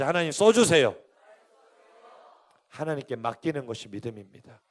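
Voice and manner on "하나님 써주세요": louder, lifted plea to God; louder call. Shown as a demonstration. Preacher telling congregation to say it big, louder. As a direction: call it out for everyone to follow. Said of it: "크게 해야지".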